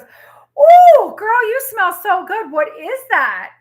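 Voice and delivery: put-on high, loud gushing "ooh girl"; gushing compliment. Friend gushing over how good she smells, high and loud. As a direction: gush over her scent like a fan. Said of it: "she goes".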